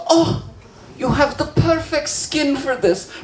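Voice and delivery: high-pitched, delighted cooing; gushing technician. Acted. Acts delighted laser technician.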